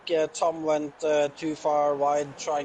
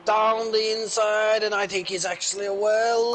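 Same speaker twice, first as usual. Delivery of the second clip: excited; 5 semitones higher, 4 dB louder than usual. Real, not acted. Overtake attempt into turn one.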